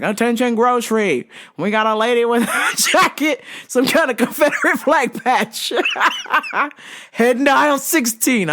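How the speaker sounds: page the aisle like a store announcer; cheeky intercom call over laughter; mock store page. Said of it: "I fucking paged that shit".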